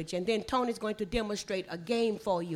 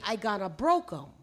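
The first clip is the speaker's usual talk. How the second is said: run-together Gullah phrasing; Gullah speech; 2 semitones lower than usual. Shown as a demonstration. Teacher translating for visitors, in Gullah. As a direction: say it as a Gullah speaker would. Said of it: "In Gullah, we would say".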